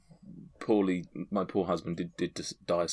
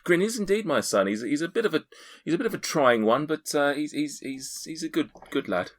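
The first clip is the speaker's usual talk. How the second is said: put-on much higher, chatty older woman; Destiny the midwife; 8 semitones higher than usual. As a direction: talk like a proud, fussy midwife mother. GM keeps voicing Destiny the midwife.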